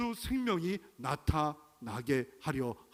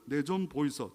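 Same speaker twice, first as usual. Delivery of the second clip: put-on Gyeongsang accent. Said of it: "경상도는".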